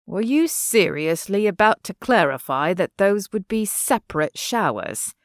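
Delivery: a hint of an English accent, teasing; lightly voiced teasing Englishman.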